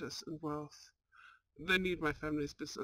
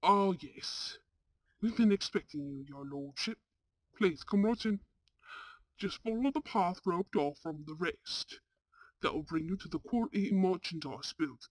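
fawning gatekeeper; 4 dB louder than usual. Acted. Slave market gatekeeper greets lord.

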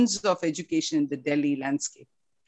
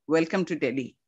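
a light imitation of his Hindi-accented welcome, quick on the middle line; much faster than usual. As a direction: echo his accent loosely, brisk and friendly. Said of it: "in his accent".

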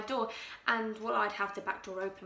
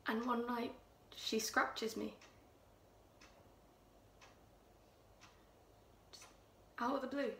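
Louise, hushed and menacing; 2 semitones higher, 6 dB quieter than usual. Acted. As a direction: draw them in with a chilling hush. Louise quietly recounts strangling the cat.

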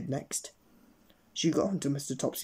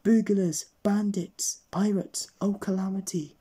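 high, loud panicky list; panicked outcry; 6 semitones higher, 4 dB louder, slower than usual. Acted. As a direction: cry out in alarm. Panicked call to police.

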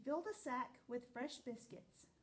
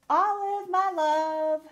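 exclaimed; 6 semitones higher, 18 dB louder, slower than usual. Acted. Reading the cover words.

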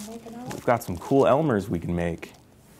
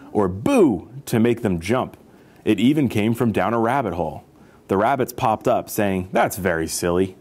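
expressive picture-book narration; story read-aloud; slower than usual. A narrator's reading. Storyteller reading about elephants to children, lively narration.

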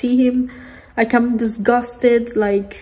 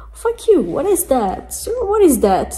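outraged; 5 semitones higher than usual. Real, not acted. Outraged at singer's anti-abortion song.

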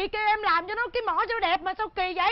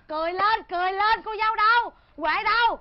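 cheery calling out; 4 semitones higher, 5 dB louder than usual. Acted. Urging everyone to cheer up.

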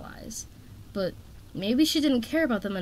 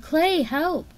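high, loud call for help; shout; 9 semitones higher, 5 dB louder than usual. A narrator's reading. Tsunami diving after Webs needs Clay, shouting for help. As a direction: call out urgently to a friend. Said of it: "she shouted".

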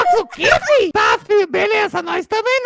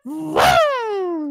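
motorbike vroom; 2 semitones lower than usual. Retold or imitated. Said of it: "quando eles fazem o ronco assim, ó".

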